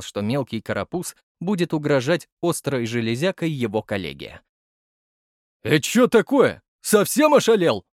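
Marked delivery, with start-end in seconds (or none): 5.6-7.8 booming bass. A narrator's reading. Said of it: "пробасил Саныч".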